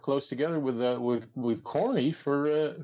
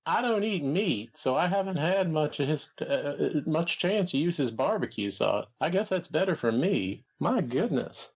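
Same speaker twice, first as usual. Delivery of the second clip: Jim Barnett impression. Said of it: "sound a little bit more like Droopy Dog".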